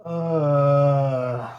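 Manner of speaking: a beaten giant groaning; pained groan. Acted. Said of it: "Polyphemus moaned".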